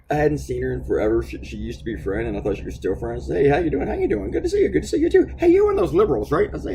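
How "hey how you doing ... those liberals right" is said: much higher, mocking imitation of a fake-friendly woman; sing-song mock greeting, pitched way up; mock lady. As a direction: put on a much higher, sugary fake-nice voice. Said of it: "And I had some lady".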